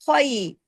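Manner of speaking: "ख्वाई" bending gently from a heavy "khwa" into "ee"; soft turn of the voice inside "ख्वाई"; thick opening, smooth glide on "ख्वाई"; soft leen glide. Shown as a demonstration. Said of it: "आवाज में नरमी से मोड़ पैदा हो जाता".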